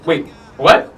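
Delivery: imitating a stunned double take; lightly played baffled reaction; mock incredulity. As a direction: act out mild disbelief. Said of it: "He is incredulous that just happened".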